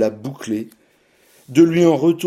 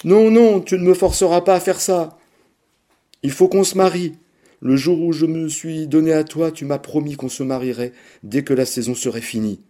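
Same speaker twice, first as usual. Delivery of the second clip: high, loud, desperate pleading; tearful pleading; 6 semitones higher, 3 dB louder than usual. A narrator's reading. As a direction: beg him through tears. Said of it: "elle se mettait à chialer".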